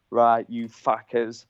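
lightly imitated Cockney team manager, slow; slow Cockney impersonation; Cockney accent. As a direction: have a go at a slow Cockney boss. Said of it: "he's a proper, like, Cockney accent".

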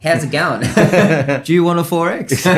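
put-on broad Australian accent, high, loud and laughing. Aussie chef mocks his own accent in France, laughing broad Australian. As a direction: ham up an Aussie bloke offering a beer. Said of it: "G'day, mate".

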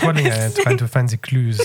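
lightly voiced French inspector, laughing through it; a hint of French accent, half laughing; hammed-up French detective voice. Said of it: "he's French in my mind".

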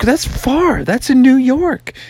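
put-on high, protesting kid voice; high-pitched storybook son; young frog son. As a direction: object as a little frog. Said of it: "he's like".

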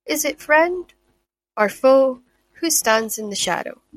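measured promo read, phrase by phrase; dramatic blurb reading. Acted. Host reading a fantasy book's blurb to listeners, dramatic promo read. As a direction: read it like a book trailer, lifting key phrases.

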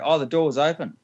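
high-pitched innocent excuse; feigned innocence. Acted. Passenger explaining to baggage handler how he got downstairs, mock innocent.

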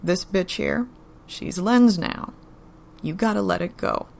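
steady, unhurried and level; evenly. Acted. Joe tells Daryl to let Beth go, evenly. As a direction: keep it calm and final. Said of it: "Joe said evenly".

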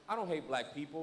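low, soft retold confession; hushed and low, imitating his admission; subdued confession. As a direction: voice the man quietly admitting it. Retold confession of tattooed man.

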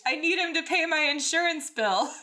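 high, loud comic screech. A narrator's reading. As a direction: scream the silly reason in earnest. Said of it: "Anakin screeched".

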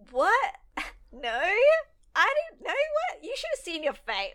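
high, loud mock denial with a laugh; imitating Misty's exaggerated denial; hammed-up Misty. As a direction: overplay the fake innocence. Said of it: "Misty's like".

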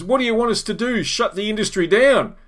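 lightly voiced union boss calling their bluff. Union secretary on the megaphone to the crowd, mock-bluffing. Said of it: "sort of bluffing".

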